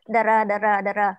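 "Đờ rờ" with the đờ and rờ clearly apart, slow and even; split sounds. Shown as a demonstration. Teacher drills the class on the parts of DR, split apart. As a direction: sound out "đờ rờ" as two separate syllables. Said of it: "Mọi người đọc như vậy nha".

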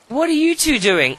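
high, loud startled question; surprised outburst. Real, not acted. Player catching two Sims in bed, high startled shout. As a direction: catch them in the act, shocked.

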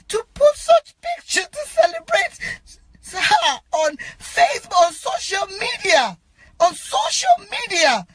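distressed protest, pitch leaping up; emotional outcry. Real, not acted. Telling posters the picture is disrespectful, upset and emotional. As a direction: protest as if close to tears. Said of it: "I'm so sorry that I'm shouting, I'm emotional".

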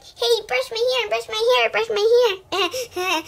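mock the girls teasing; imitating girls. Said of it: "all the girls would be like".

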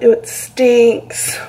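drawn-out disgusted "ew". Real, not acted. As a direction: recoil from a bad smell. Smelling the vinegar.

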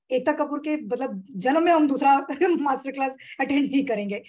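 mock-irritated student, half laughing; lightly exaggerated complaint with a laugh. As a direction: imitate a fed-up audience member. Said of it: "You will be so irritated with me".

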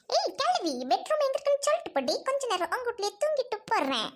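high, sing-song cheeky friend; a brazen high-pitched freeloader, lightly played; high voice of a shameless guest asking to nap. Cheeky friend demands a bedroom.

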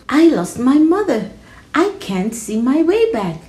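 put-on high child voice; lost little girl. Lost girl telling the wolf her trouble, high child voice.

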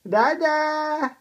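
drawn-out call on one held note; sustained last vowel; calling for Dada. Shown as a demonstration. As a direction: demonstrate calling out to dad. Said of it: "Come on, call Dada".

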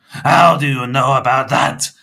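loud, high shocked question; startled, forceful demand; gasped. A narrator's reading. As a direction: gasp it out in alarm. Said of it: "Mister Crepsley gasped".

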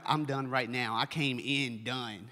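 worn out. Retold or imitated. Worn-out churchgoer voiced.

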